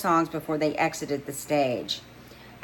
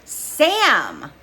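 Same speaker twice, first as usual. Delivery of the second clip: high, delighted squeal of a name; an excited friend's happy squeal; squeal of approval; 9 semitones higher, 7 dB louder than usual. Acted. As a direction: shriek it with glee. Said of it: "with a squeal of approval".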